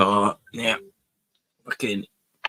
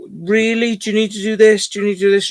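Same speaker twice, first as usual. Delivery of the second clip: high, pleading exasperation at the dog; exasperated scolding; 8 semitones higher, faster than usual. Retold or imitated. Owner scolding the dog in the car, high and exasperated. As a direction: scold the dog in disbelief, voice pitched up. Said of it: "I just said to her".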